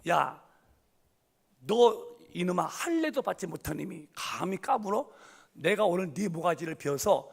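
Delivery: a bold threat at the giant; defiant taunt. Retold or imitated. Boy shepherd taunts the giant Goliath before battle. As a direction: sneer at him, unafraid.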